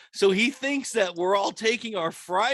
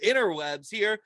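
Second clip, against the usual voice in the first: exasperated; 4 semitones higher than usual. Retold or imitated. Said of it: "And then I'm like".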